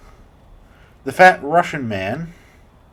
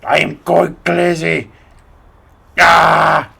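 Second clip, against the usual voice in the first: slow, louder Russian take, shouted "Ah!" at end; Russian accent; 3 semitones higher, 7 dB louder, much slower than usual. Acted. YouTuber redoes the crazy line in Russian accent. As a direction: redo it properly Russian. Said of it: "more Italian than Russian".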